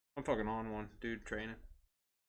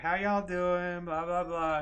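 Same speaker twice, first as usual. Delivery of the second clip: higher, louder, slow and sing-song greeting; cheery barista; 6 semitones higher, 5 dB louder, slower than usual. Retold or imitated. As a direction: greet like an overly friendly drive-thru girl. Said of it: "She's like".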